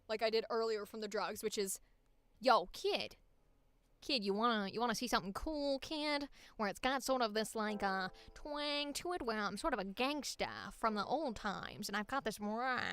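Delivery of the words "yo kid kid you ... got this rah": old-time gangster twang, lightly put on; mafia voice. Shown as a demonstration. Streamer showing the mafia half of a radio voice, gangster twang. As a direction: talk like an old-time mobster. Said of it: "you're combining Mafia".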